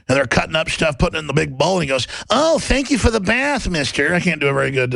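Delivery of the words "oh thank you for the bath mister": half-hearted cartoon rabbit, higher at first; a poor stab at a Brooklyn cartoon voice; Bugs Bunny. Rabbit thanking pygmies from the pot, badly imitated. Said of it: "Bugs Bunny imitation of that Brooklyn accent".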